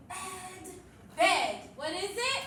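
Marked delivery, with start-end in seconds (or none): 0.1-0.7 soft, held-out sounds; hushed, level sounding-out for beginning readers; whisper reading. Shown as a demonstration. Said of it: "I'm whispering". 1.2-1.6 loud, quick whole word; loud and proud. Shown as a demonstration. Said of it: "say it loud and proud".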